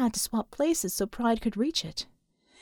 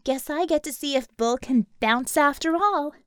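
higher, raised threat; spiteful threat; 4 semitones higher than usual. Acted. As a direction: make good on the threat. Harmony threatens to press detonator.

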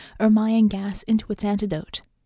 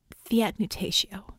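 slow whispered incantation; whispering; 3 dB quieter than usual. Acted. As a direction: breathe the spell out in a whisper. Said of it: "she whispered".

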